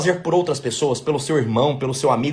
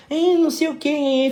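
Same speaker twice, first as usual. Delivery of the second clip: much higher, slow cooing; baby talk; 10 semitones higher, slower than usual. Retold or imitated. Adult cooing to a small baby, high sweet baby talk. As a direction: coo at a tiny baby. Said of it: "com a vozinha meio meiguinha".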